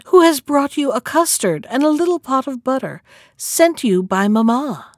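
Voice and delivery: lightly put-on high child voice; counterfeited girl's voice. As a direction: pretend to be the little girl. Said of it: "counterfeiting his voice".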